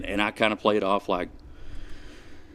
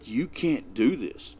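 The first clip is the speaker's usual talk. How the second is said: daddy mode; 5 semitones higher than usual. Retold or imitated. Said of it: "he turns into, like, daddy mode".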